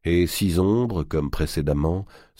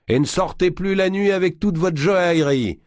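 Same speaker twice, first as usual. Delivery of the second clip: booming giant voice; 14 semitones higher, 4 dB louder than usual. Acted. Giant parting jest.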